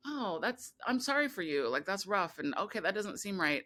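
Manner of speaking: high, airy imitation of polite pity; mock sympathy. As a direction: mimic friends brushing it off kindly. Friends' hollow sympathy, imitated.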